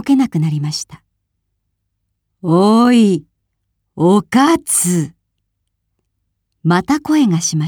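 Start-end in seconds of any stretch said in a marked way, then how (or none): 2.4-5.1 a bit louder, angry call from the falls; angrier ghost call. A narrator's reading. Waterfall spirit calls to the thief, mildly angry and louder. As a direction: summon her sharply from inside the waterfall. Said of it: "もっと大きい怒ったような声です".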